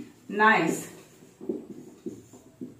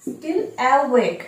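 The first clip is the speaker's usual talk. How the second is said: slow; much slower than usual. Shown as a demonstration. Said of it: "অর্থাৎ এখনো পর্যন্ত".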